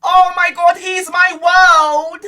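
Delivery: lightly voiced gushing girl, drawn out; mock lovestruck girl. Girl talking about her new boyfriend, mock gushing. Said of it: "she'd always say the same thing".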